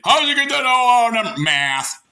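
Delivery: high, quick shocked question; surprised. Retold or imitated. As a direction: gasp at the number.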